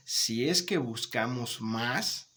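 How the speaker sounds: "Si es que buscamos más" slow, rising at the end; conditional intonation. Shown as a demonstration. Teacher paraphrasing the condition, rising on "más". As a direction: stretch it and leave "más" hanging. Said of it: "Una especie de condicionante".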